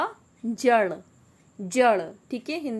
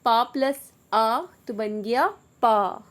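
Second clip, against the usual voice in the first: slow repeat. Shown as a demonstration. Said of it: "ठीक है".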